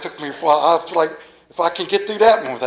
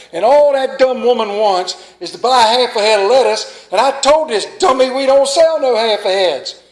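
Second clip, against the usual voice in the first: mock heated rant; 3 semitones higher than usual. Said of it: "he threw a fit".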